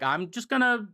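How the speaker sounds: Robotnik voice. Retold or imitated. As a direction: ham up a scheming villain offering a deal. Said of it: "Robotnik's like".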